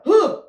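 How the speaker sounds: sharp loud gasp of fright; mock startled huh. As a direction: jolt awake with a gasp.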